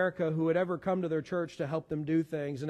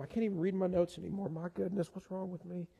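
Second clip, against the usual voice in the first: choked up, fading softer; flustered and overcome, voice dropping away; getting emotional; 3 dB quieter than usual. Real, not acted. Pastor unable to read notes anymore, emotional and faltering. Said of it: "I'm getting emotional".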